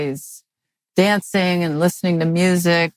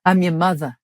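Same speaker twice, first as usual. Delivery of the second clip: put-on Southern accent. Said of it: "thick Southern accent".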